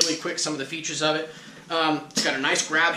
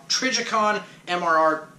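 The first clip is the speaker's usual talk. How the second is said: "Trijicon M R R" fumbled, the letters tripping; tongue-tied stumble; 3 semitones higher than usual. Real, not acted. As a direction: trip over "Trijicon M R R" as the tongue slips. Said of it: "oh my god, I can't talk, sorry".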